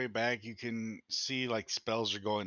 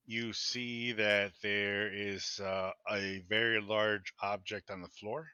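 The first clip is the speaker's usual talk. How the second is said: game master scene-setting. Acted. Game master describing a smoky room to players, measured narration.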